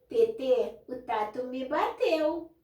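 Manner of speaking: lightly voiced toddler; small child voice. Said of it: "ele para e fala". (criança pequena, fala lenta e um pouco aguda)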